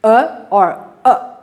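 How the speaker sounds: two takes of uh, each a schwa; schwa variants. Shown as a demonstration. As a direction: try uh two ways, same sound. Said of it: "You can do this".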